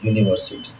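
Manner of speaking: यूनिवर्सिटी opening with a "yu" sound; teacher says यूनिवर्सिटी to show the "yu" sound; pronunciation demo. Shown as a demonstration. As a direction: model यूनिवर्सिटी so it starts with "yu". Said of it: "क्या बोला?".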